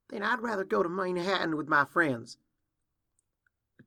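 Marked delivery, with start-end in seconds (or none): 0.1-2.4 high, loud, stung comeback; hurt retort. Acted. Hurt filly turning away from Applejack, defiant retort. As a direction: throw it back, wounded and defiant.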